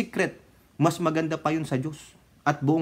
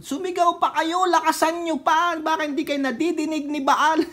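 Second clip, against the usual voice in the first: higher-pitched mocking taunt; 11 semitones higher than usual. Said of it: "Inasar-asar niya". (mapang-asar na tono, mataas ang boses)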